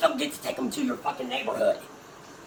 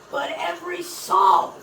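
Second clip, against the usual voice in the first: "every song" yelled slow and high; loud slow shout; 4 semitones higher, 5 dB louder than usual. Real, not acted. Throwing the lyric back at the singer, slow shout. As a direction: drag the line out as a shout.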